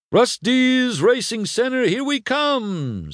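high-pitched rallying cry, last words drawn out; excited whoop. Acted. Mac setting off for the racing center, excited whoop. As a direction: holler it as the trip begins. Truck sets off on trip.

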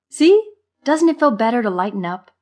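high, loud playful 'told you'; amused. A narrator's reading. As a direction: nudge a grump playfully. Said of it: "Marva chuckled".

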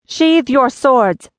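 slow magical command to the armed men; compelling command. A narrator's reading. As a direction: lay compulsion into every word. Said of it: "she commanded, infusing her voice with compulsion".

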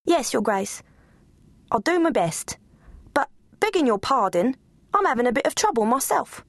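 lightly voiced, breathless servant; curtsy with your voice; flustered cook. Cook answering the Duchess, flustered.

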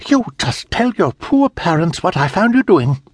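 put-on high, stern order to the girl; commanding governess. A narrator's reading. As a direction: command her like a harsh governess.

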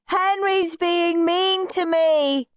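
high, slow tattling wail; shouted complaint. A narrator's reading. Peter tells Mum on his brother, shouting. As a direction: wail it out as a little tell-tale. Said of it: "shouted Peter".

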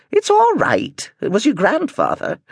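a lightly voiced amused grandmother; teasing Gran. A narrator's reading. Gran teasing shocked Prentice, slow and high.

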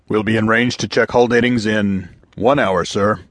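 lightly voiced crisp young officer; female lieutenant. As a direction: report it briskly as a junior officer. Lieutenant reports to captain.

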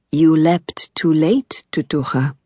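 slow, breathy whisper; whispered alien voice. Acted. Alien guardian speaks softly.

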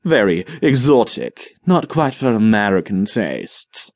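slow, hammed-up British accent, lightly done; exaggerated British accent. Monty mocks the British to Tom, in a slow exaggerated British accent. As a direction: put on a mock posh British accent. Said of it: "he affected an exaggerated accent".

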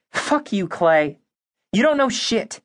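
high, sharp outburst at Clay; angry outburst. Acted. Abby fights with Clay.

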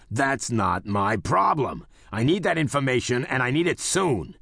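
barking. Acted. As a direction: snap it out like an order. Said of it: "Shapiro barked".

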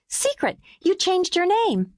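put-on high, slow child teasing; teasing little girl. A narrator's reading. Mimi teases the babysitter, high and playful. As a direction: draw the name out playfully.

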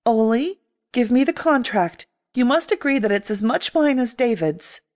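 firm, steady command. Acted. Grace demanding the contract from Ollie, commanding. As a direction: take charge and give the order. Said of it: "in a tone of command of her own".

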